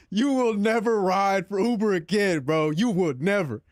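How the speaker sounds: slow, drawn-out mock threat from the driver; lightly voiced irate driver; mock angry driver. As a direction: ham up the driver's warning, slowly. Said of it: "It said".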